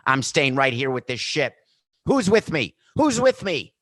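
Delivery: hammed-up denial, calling out cheerily; mock Florentino on the sinking ship. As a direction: play the deluded man on a sinking ship. Florentino voiced as Titanic violinist.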